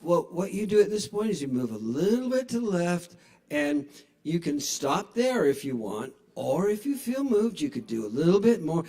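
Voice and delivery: mock yoga teacher. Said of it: "the yoga video is like".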